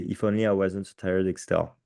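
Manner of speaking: English with a strong French accent. Real, not acted. Teacher reading an English exam example, strong French accent. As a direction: read English as a very French speaker. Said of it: "Excusez mon accent".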